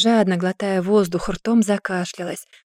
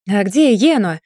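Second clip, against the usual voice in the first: indignant; 6 dB louder than usual. Acted. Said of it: "возмутился Гийон".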